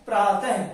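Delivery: प्रातः ending in an audible "ha/he"; visarga h sound. Shown as a demonstration. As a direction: sound the visarga in प्रातः as a breath of "h" plus short vowel. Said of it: "अब इसका उच्चारण क्या हो जाएगा".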